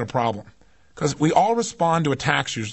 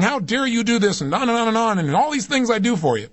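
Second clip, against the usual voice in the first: retold anger; 6 semitones higher than usual. Son snaps back at his mother on the phone, retold anger. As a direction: act out an affronted outburst. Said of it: "responded to that with anger".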